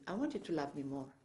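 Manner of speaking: quiet, tender quoted request; very gentle. Retold or imitated. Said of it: "Very gently said".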